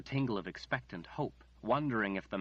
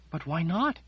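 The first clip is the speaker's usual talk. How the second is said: high, louder, incredulous; dismayed protest; 9 semitones higher, 8 dB louder than usual. Acted. Margaret protests Nathan's refusal, high and loud. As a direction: push back in disbelief.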